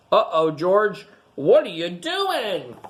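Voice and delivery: a touch of surprised uh-oh, slowed; lightly surprised, drawn out; mild surprise. Acted. Man finds George covered in stickers, mild surprised uh-oh. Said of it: "The man with the yellow hat walked in".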